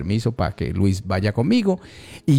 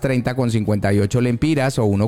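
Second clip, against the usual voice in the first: radio ad read. Real, not acted. Host reading exchange rates for the sponsor, announcer style.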